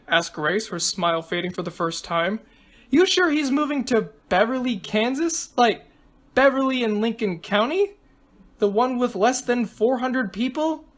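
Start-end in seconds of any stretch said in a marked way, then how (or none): 2.9-10.8 lightly voiced girl, a bit higher, questioning; excitable girl contestant, now doubtful. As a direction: query it in a lightly raised girlish voice.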